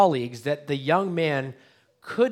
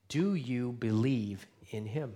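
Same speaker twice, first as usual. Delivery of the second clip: slow, softer searching question; earnest question; 2 semitones lower, 6 dB quieter, slower than usual. Real, not acted. Pastor asks the congregation, slow and earnest. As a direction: ask it slowly and sincerely.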